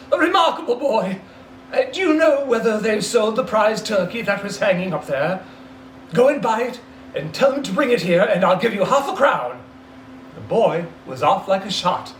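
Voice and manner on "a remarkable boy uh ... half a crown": delighted. Acted. Scrooge delighted, excited orders.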